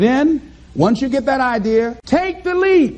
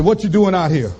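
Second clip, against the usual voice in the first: much lower, gruff-toned voice of hard life; a much lower voice for life ending the good times; life as a bully; 8 semitones lower than usual. Acted. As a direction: play life as the tough guy who just showed up. Life confronting the dreamer.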